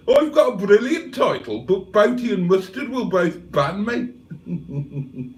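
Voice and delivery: high, put-on comic character voice; Cheeseburger. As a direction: pitch it up and ham up the chatter's message. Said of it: "Cheeseburger says".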